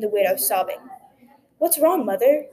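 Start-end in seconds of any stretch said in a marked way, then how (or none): 1.6-2.5 in alarm. A narrator's reading. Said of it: "he asked in alarm".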